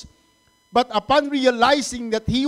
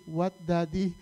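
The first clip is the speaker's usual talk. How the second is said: softer, lower "What, Daddy?"; polite corrected reply; 3 semitones lower, 6 dB quieter than usual. Shown as a demonstration. Father showing his son how to reply, polite corrected reply. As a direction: model the respectful answer, gently. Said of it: "You say".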